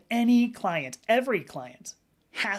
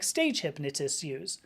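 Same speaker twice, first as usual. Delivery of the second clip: usual speaking voice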